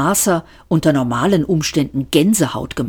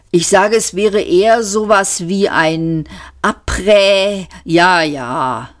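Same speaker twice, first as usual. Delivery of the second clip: a hint of a smug joker; Ford's voice; 3 semitones higher than usual. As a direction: toss the joke off. Ford quips.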